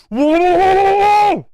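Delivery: high, loud burst of amazement; a stunned yelp at the chat; shocked whoa. Real, not acted. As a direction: blurt it out, floored by the news. Streamer shocked at pricey GPU buy.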